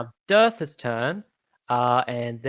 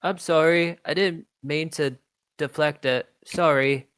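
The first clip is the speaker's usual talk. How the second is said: apologetic creature; 4 semitones higher than usual. Acted. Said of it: "And it says".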